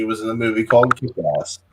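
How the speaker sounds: muffled, hard to make out. Real, not acted. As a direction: speak as if behind a hand. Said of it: "you kinda muffled a little bit".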